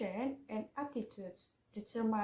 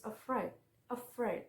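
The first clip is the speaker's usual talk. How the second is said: "afraid" with the second syllable stressed; emphasize the last syllable of "afraid"; "afraid", weight on the second syllable. Shown as a demonstration. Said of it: "with stress on the second syllable".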